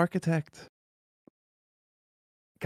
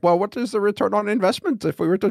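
mock German businessman; dry German accent querying the investment; 5 semitones higher than usual. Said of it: "the German would look at that is like".

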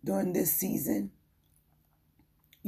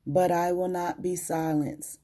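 tired, weak voice. Real, not acted. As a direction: speak through a worn-out voice. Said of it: "My voice is weak today".

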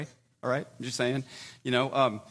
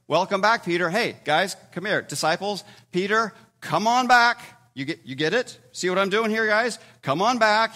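joyful welcome; 4 semitones higher, 5 dB louder than usual. Acted. Jesus welcoming Peter back.

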